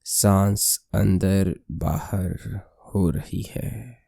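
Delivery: slow, slightly softened meditation voice; guided meditation. Acted. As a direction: lead the breath slowly, with long pauses. (धीमी, शांत ध्यान कराने वाली आवाज़)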